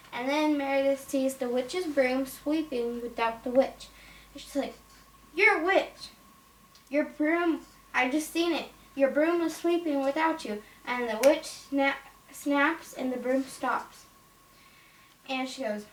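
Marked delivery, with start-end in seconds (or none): 5.3-10.6 play-acted accusing, a little higher; startled accusation. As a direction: pretend shocked discovery. Acted accusation of witch in toy play.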